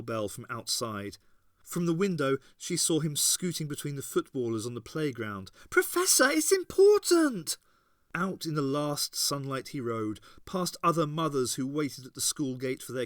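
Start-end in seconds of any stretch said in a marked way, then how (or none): 5.7-7.6 high, loud urgent call. A narrator's reading. Ace calling the departing Professor, urgent shout. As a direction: shout after him as he rides off.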